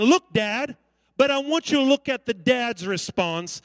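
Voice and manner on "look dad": whippersnapper attitude. Retold or imitated. Cheeky son talking back to his dad, curt. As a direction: talk back like a cheeky kid. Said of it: "a little whippersnapper saying".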